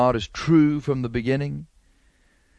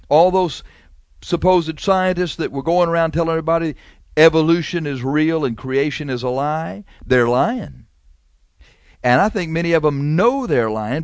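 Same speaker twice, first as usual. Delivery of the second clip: louder, higher denunciation of scientists; fiery preaching; 3 semitones higher, 3 dB louder than usual. Acted. Preacher denounces lying scientists, loud and fiery. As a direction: thunder against the supposed scientists.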